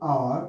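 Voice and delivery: আওয়ার with the H silent. Shown as a demonstration. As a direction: say আওয়ার starting on the vowel, no H. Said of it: "এইচটা উচ্চারণটা silent হবে". (আওয়ার, H উহ্য রেখে উচ্চারণ)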